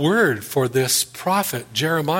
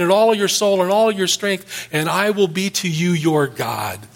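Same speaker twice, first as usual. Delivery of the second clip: God's booming rebuke; 4 semitones higher than usual. Acted. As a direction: thunder it down at him, a stern God setting him straight. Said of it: "And God says".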